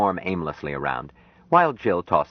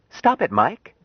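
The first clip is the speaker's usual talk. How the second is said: alarmed cry; 10 semitones higher, 3 dB louder, slower than usual. Acted. Jill alarmed by Mike's laughter.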